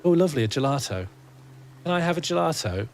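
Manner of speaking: put-on soft southern accent with a sounded t. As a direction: play a polite customer in soft southern English. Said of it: "a very soft southern accent".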